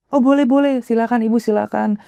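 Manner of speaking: high-pitched, eager-to-please welcome; ramah dan sopan. Retold or imitated. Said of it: "ramah, sopan gitu ya". (ramah dan sopan, bernada tinggi)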